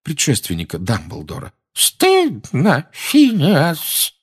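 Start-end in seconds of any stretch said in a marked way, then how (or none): 1.7-4.1 scolding shout. A narrator's reading. Portraits scold Phineas.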